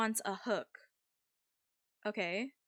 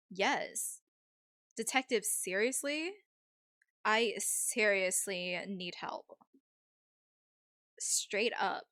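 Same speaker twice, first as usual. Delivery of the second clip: lightly voiced Valley girl; a hint of Valley-girl accent. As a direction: play it as a mild Valley girl. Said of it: "If you guys hate the Valley accent".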